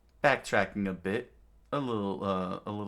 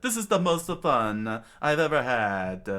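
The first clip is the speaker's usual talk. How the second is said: higher, louder happy voice; smiling delight; 4 semitones higher, 5 dB louder than usual. A narrator's reading. Chopper smiling among his new crew, delighted. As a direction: say it with a big smile. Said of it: "with a smile on his face, Chopper said".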